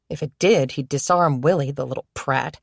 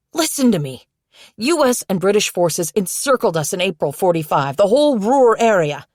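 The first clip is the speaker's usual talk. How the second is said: urgent pleading; 4 semitones higher, 4 dB louder than usual. Acted. Jacob desperately pleads with boy.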